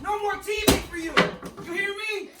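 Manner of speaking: stern scolding dad, put on for a prank; fake angry. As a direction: play the furious parent with a straight face. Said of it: "I'm just playing".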